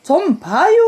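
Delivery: drawn-out Chungcheong ending; Chungcheong dialect. Shown as a demonstration. Mother demonstrates "excuse me", Chungcheong dialect. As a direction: let the last syllable stretch, Chungcheong style. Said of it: "그럼 충청도는?".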